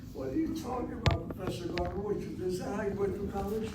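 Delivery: high mock student voice challenging Professor Garber; mock student retort. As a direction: play the cheeky student calling out the professor.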